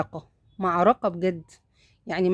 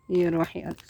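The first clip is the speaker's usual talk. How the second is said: tender whisper to cat. Real, not acted. Whispering to the cat with her kittens, tenderly. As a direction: breathe it to her like a secret.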